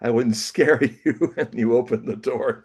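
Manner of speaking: put-on high, flustered young writer apologizing; a jittery fan pleading his case at the door; nervous apology. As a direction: blurt it out, anxious to explain. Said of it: "and I went".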